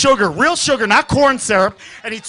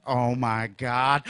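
awed, slow gasp; 9 semitones lower, 3 dB quieter, much slower than usual. Retold or imitated. Awed discovery.

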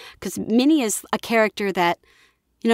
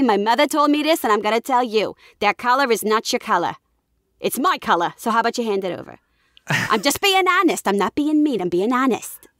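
put-on New York accent. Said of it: "but New York, you can be like".

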